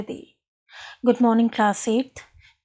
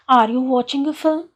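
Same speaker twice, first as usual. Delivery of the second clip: rising question on "are you watching a film"; 3 dB louder, faster than usual. Shown as a demonstration. French teacher giving the class an example, questioning tone. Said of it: "Intonation is changing your tone".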